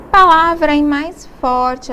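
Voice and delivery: emphatic. Shown as a demonstration. Teacher explaining the tônica, loud and slow. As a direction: punch mais forte to show the strong syllable. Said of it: "a tônica é aquela".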